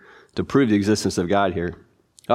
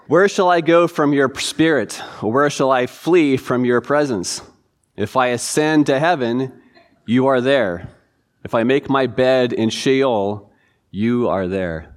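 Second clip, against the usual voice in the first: scripture reading; slower than usual. Acted. Reads second verse slowly.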